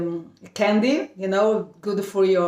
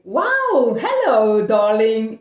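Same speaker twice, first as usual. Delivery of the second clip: cheerful English lady; 3 dB louder, slower than usual. Retold or imitated. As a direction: greet her like a delighted Englishwoman. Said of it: "She talked with me so nicely".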